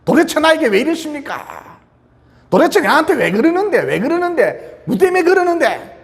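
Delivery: high-pitched mock yelling at the heavens; retold angry yelling. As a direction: act out an exasperated, angry "why me?" outcry. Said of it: "너무 화가 나서 산을 보고 고함을 쳤대요".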